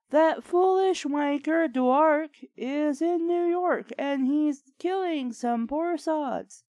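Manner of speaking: hammed-up British butler; mock British accent. Reading a fanfic, the butler in mock British accent. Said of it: "that's how British people talk".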